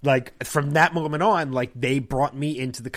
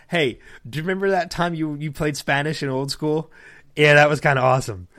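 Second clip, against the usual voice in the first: mock Josh teasing. Actor teasing costar at panel, mild mock enthusiasm. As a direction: rib your costar with fake praise. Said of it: "it kinda goes something like this".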